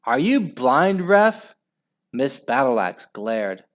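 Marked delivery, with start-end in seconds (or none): 0.0-1.5 high, rising, loud challenge; heckle, climbing in pitch; scream. A narrator's reading. Mum berating the referee, screaming. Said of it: "screamed Margaret's mom".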